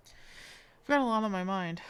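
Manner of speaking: loud, slow and fed up; grumpy officer barking at a stranger; annoyed yell. Acted. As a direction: snap it out, irritated and loud. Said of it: "Why are you yelling?".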